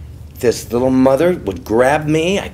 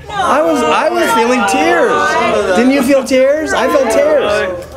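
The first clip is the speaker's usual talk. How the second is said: mock teary; 10 semitones higher, slower than usual. Mock weeping over the intro.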